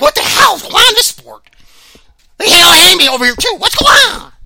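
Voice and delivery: high, whiny bewildered fighter; mocking Vanderlei. Host mimics Vanderlei baffled by the sport, high wail. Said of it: "He was like".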